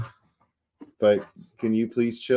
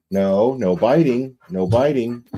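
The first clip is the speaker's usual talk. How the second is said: firm no; 3 semitones higher, 5 dB louder than usual. Real, not acted. Telling the dog off.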